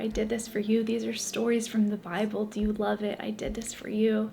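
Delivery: gently, barely voiced; tender whisper. Jesus tenderly showing his gifts.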